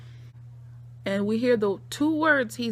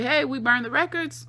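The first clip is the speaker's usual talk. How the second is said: put-on high giddy meth girls; 5 semitones higher than usual. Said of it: "'cause they say".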